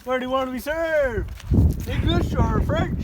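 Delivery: mock waiter. Mock waiter asking fish.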